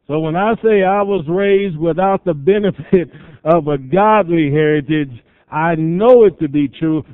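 loud, emphatic sermon storytelling; forceful preaching. Real, not acted. Preacher recounting his mother's armed rescue, forcefully. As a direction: preach it out with punch and volume.

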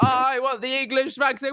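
high, hammed-up patriot refusing to budge; mock Brexiteer. Mocking people refusing the Pfizer vaccine, hammed-up Brexiteer. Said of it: "And now they're like".

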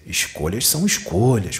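pointed, mildly menacing warning; threatening intonation, put on; mock threat. Shown as a demonstration. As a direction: say it as a veiled threat. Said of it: "com entonação de ameaça".

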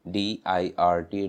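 "एफ़ आई आर एम" spelled slowly, letter by letter; slow spelling. Shown as a demonstration. Teacher spelling for learners, slow letter by letter. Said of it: "dirt".

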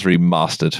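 REMASTERED with a long "ah" in the middle; posh long A. Shown as a demonstration. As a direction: say REMASTERED the southern way, "re-MAH-stered". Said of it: "Depends how posh you want to be".

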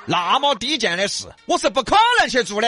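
fast, loud, high disdain; haughty scorn. Acted. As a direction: sneer at the idea. Bao scorns the chore.

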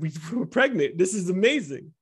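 laughing through the happy news; bursting with delight as he says it; laughing joy. Retold or imitated. Retelling joy at pregnancy news.

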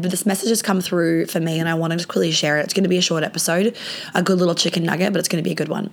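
hoarse voice from laryngitis; rough, hoarse sick voice. Real, not acted. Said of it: "I'm coming to you sick from bed".

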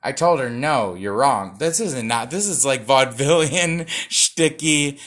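loud, hammed-up late-night host delivery; brassy, shticky host voice; Johnny Carson voice. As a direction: play it like a vaudeville talk-show host. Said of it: "do this in a Johnny Carson".

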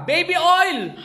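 high, hammed-up punchline; joke punchline. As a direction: pop the punchline "Baby oil!" up high for the gag. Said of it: "sabi ni Bogs Vargas".

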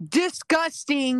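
loud, high, drawn-out revulsion; mock disgusted outburst. Co-host judging the anime about countries, loud theatrical disgust. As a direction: belt it out slowly in theatrical disgust.

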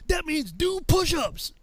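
high, slow, drawn-out explanation; exasperated sergeant. Retold or imitated. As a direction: spell it out for a dim recruit.

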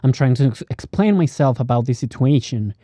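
casual American English accent, lightly done. Shown as a demonstration. Showing how Americans speak, American English accent. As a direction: talk like a laid-back American. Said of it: "la forma estadounidense de hablar".

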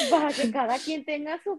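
words broken up by laughter; amused, giggling punchline; laughing. Real, not acted. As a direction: laugh through the joke. Joking along, laughing.

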